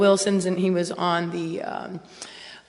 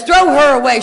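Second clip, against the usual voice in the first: inner voice shouting; 4 semitones higher, 10 dB louder than usual. Retold or imitated. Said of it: "That's what my mind says".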